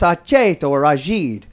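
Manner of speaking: Aceto said slowly, then Ajid, the family way; Italian surname said two ways. Shown as a demonstration. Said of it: "It's pronounced".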